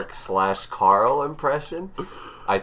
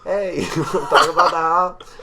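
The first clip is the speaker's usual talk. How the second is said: high, loud mock phone shout; calling from afar; 12 semitones higher, 10 dB louder than usual. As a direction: holler as if the phone is far away. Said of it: "hold it, like, very far away".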